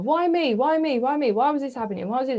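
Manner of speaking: high, loud desperate why me; anguished pleading. Retold or imitated. Speaker reliving childhood self-pity, an anguished high plea. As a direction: cry it out to the heavens, pleading. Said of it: "This is how I protected myself".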